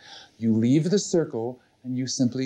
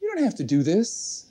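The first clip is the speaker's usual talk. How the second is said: reassuring inner voice; 6 semitones higher than usual. Acted. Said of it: "you hear this voice saying".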